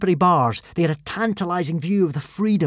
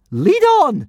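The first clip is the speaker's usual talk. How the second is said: slightly mad laugh; 11 semitones higher, 7 dB louder than usual. A narrator's reading. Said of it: "with a slightly mad laugh".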